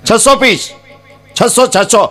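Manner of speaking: high-pitched printer calling a customer; phone caller. Retold or imitated. Printer rings the groom's father about invitation cards, high phone voice. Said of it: "કે આમ phone આવ્યો".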